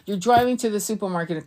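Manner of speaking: ordinary talk, nothing marked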